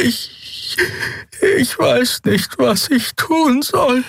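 sehr hohe, langsame Stimme voller Verzweiflung; verzweifelte Figur. A narrator's reading. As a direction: hilflos klagen, hoch und gedehnt. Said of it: "Ihr Horn tutete lange und verzweifelt". (hoch und verzweifelt)

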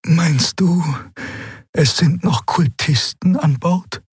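high, slow creature voice, hushed. A narrator's reading. Xea asks Keru about cultists, high and hushed. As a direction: ask carefully so the workers won't hear. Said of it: "Sie sprach mit gesenkter Stimme".

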